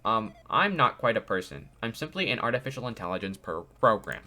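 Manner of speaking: lightly robotic AI voice. Acted. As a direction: read it like a calm robot. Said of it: "it's like a robotic voice".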